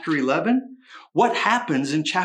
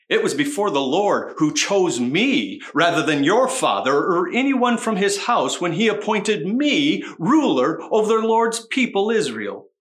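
snarky, loud and pointed; sarcastic reading; 3 dB louder than usual. Shown as a demonstration. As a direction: read it with heavy sarcasm. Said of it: "I'm gonna read it sarcastically".

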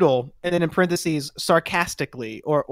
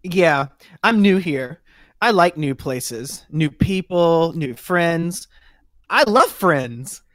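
slow, bright, eager and friendly; overeager chatty recruit; 4 dB louder, slower than usual. Acted. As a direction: gush about loving friends. Plays chatty Noodle.

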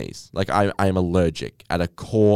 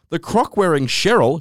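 quoting the wife; 7 semitones higher, 3 dB louder than usual. Retold or imitated. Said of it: "she's actually said that".

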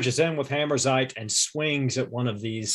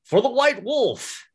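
half-hearted rallying yell, stretched out; mock battle cry; 11 semitones higher than usual. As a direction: call out a battle cry at table volume. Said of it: "he yells out".

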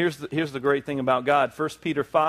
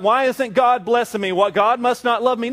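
a hint of a whiny believer, higher; complaining believer; 6 semitones higher, 4 dB louder than usual. Preacher voicing a frustrated believer, lightly mocking. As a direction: mimic the doubter lightly. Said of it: "And you're like".

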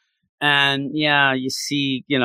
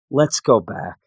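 lower, resigned and worn out; defeated; 5 semitones lower than usual. Retold or imitated. Man telling Juan they must turn back, defeated. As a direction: give up, let every word sag. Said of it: "in such a defeated deal".

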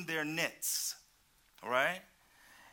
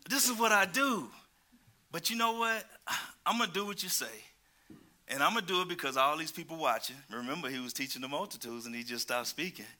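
grudging fisherman; 4 dB louder than usual. Retold or imitated. Preacher voicing Peter agreeing for the crowd's sake, grudging. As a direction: give in only for show. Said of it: "see the mind of Peter".

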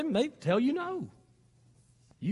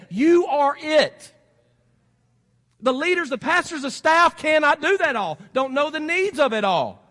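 slow, forceful sermon delivery; emphatic preaching; 5 semitones higher, 7 dB louder than usual. Real, not acted. Preacher urging members to be the way in, emphatic. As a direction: press each phrase home to the congregation.

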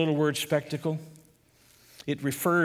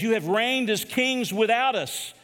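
sarcastic; 4 semitones higher than usual. Retold or imitated. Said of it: "he's using a sarcastic tone".

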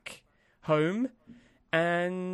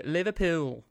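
put-on terrible Liverpool accent; 2 semitones higher than usual. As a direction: drag it out in bad Scouse. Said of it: "that was a terrible accent".

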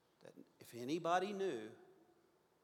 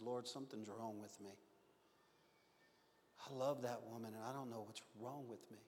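remorseful prayer; 4 semitones lower, 6 dB quieter than usual. Retold or imitated. Kneeling, praying in remorse.

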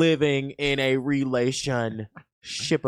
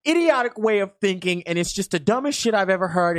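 higher, energetic mock tirade; scornful rant; 4 semitones higher than usual. Host showing how they scold the ignorant, scornful rant. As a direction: lay into them with exasperated scorn.

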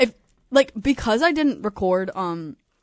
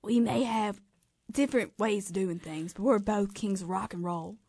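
impression of a pop singer sliding into a Southern accent; lightly put-on Southern US accent; Southern slip.

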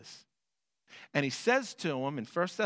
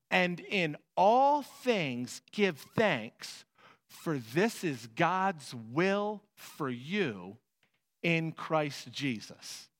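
slow scripture proclamation; much slower than usual. Acted. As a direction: let every word land slowly.

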